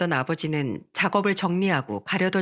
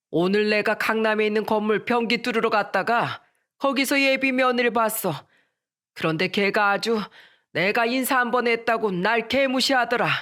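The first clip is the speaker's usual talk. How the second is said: angry father; 3 semitones higher than usual. Retold or imitated. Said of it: "화난 목소리로".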